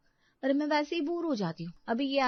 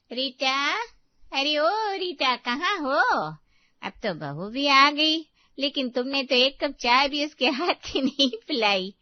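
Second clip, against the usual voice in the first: calling out; 7 dB louder, slower than usual. Acted. Neighbour calls out for Rita.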